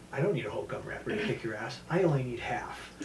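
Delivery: hushed taunting threat. Retold or imitated. Taunting student before kick.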